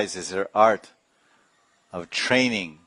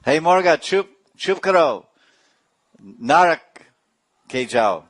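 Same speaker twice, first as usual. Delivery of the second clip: angry scolding; 7 semitones higher, 7 dB louder than usual. Retold or imitated. Scolding the rooster.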